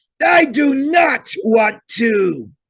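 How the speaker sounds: very high, loud growling shout. Narrator voicing the dragon's reply in a story, growling. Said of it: "the dragon growled".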